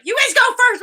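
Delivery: high, loud mock command; hammed-up shouted order; imitated cosmic order. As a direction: shout it as the cosmos sending volunteers off. Voices the cosmos ordering them.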